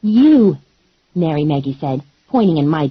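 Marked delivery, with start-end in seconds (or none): 0.0-0.4 calling out. Acted. Announcer points from stage.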